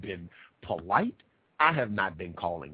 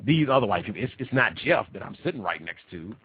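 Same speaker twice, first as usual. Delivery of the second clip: ordinary talk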